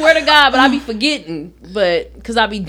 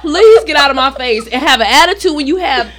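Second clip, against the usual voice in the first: much higher, laughing outrage; mother mocking a fourteen dollar ticket; laughing rant; 6 semitones higher, 3 dB louder than usual. Continued laughing rant at daughter.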